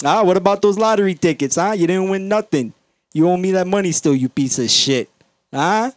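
high, loud mock heckling; construction worker. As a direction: needle a buddy at full holler. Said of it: "hear the construction workers talk".

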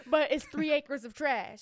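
amused, laughing insistence. Real, not acted. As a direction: carry on through a laugh. Both laughing after her correction.

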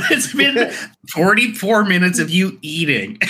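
squeaky laughing disbelief. Real, not acted. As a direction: laugh through the words. Laughing at eater.

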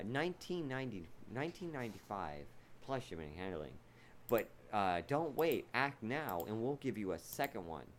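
infomercial. Retold or imitated. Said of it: "I saw one that said".

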